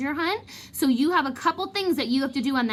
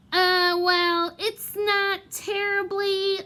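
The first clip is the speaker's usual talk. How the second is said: flustered Lockhart; 9 semitones higher, much slower than usual. Acted.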